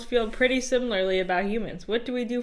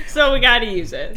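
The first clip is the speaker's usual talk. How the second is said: hiccup giggles; 2 semitones higher, 9 dB louder than usual. Real, not acted. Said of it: "I can't stop laughing".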